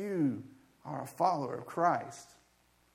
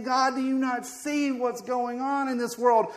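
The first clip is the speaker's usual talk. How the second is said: raised, pleading prophet's voice; prophet questioning God; 7 semitones higher, 4 dB louder than usual. Acted. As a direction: challenge God in a higher voice. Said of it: "he's basically saying".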